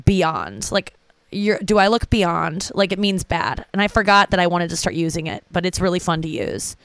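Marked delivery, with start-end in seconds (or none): 0.0-2.7 slow, drawn-out imitation of a socialite; lightly voiced heiress asking, slowly; Paris Hilton. Comic imitating a celebrity in her documentary, slow and drawn. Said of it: "she'd be like".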